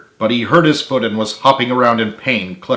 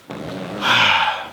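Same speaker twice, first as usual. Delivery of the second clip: sigh of defeat; 3 semitones lower, 5 dB quieter than usual. A narrator's reading. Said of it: "sighed in defeat".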